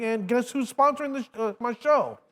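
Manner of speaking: rising into a big hype reveal; excited announcement. Real, not acted. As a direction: pitch up high for the sponsor. Hyping his show's sponsor.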